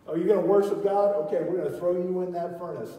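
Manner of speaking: a hint of a sneering king mocking the teenagers; mock wicked king. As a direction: taunt them like the wicked king. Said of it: "that wicked king".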